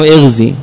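اغزي starting with "i", "ighzi"; kasra on hamza. Shown as a demonstration. Teacher shows one of two allowed readings, اغزي as "ighzi". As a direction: say اغزي as "IGH-zee". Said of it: "يجوز فيه وجهان".

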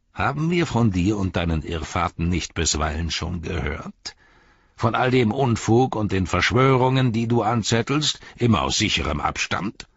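mocking, scornful herald voice; a sneering messenger of the enemy mocking the captains; sneering envoy. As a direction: taunt the wizard with contempt. Mouth of Sauron voiced.

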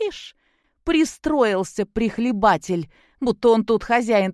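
mock him as a freeloader, rising. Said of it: "зло сощурив глаза".

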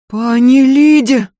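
shocked maid. Acted. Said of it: "всплеснула руками горничная".

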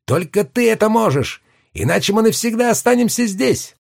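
put-on high ringing boyish shout; ringing cub shout. A narrator's reading. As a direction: call out high and ringing like a small boy. Lion cub pleading.

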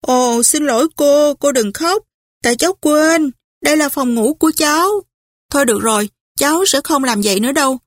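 lightly voiced young woman, apologetic then wistful; a hint of a sulky girl pleading with her aunt; young Scarlett. (giọng cô gái trẻ nhẹ nhàng, hối lỗi rồi buồn bã)

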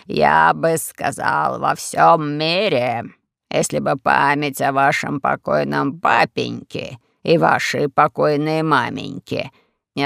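lightly voiced sly old host, drawn out slowly; slow, low old prince. Castle host Semiis mocks Rashid, slow and low. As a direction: speak as a smug old prince, unhurried and low.

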